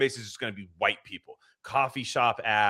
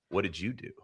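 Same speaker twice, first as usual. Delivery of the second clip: soft, level bartender question; quietly ask, as an unruffled devil; calm Satan; 7 dB quieter than usual. Acted. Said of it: "calm guy that's probably supposed to be".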